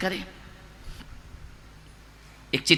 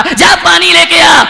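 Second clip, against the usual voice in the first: 1 grumpy father; 8 semitones higher, 11 dB louder, slower than usual. Acted. अरे बेटा कहता है.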